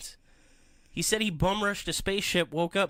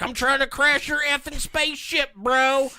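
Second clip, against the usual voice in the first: high, cocky bro voice; mock defiant Walton; 9 semitones higher, 5 dB louder than usual. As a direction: sneer it at the alien pilot. Walton voiced attacking the pilot.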